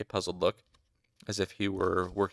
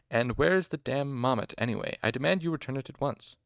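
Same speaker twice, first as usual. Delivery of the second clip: raised-pitch, resentful demand; bitter; 6 semitones higher than usual. A narrator's reading. Injured master demands the doll back, bitter. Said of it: "Hem said bitterly".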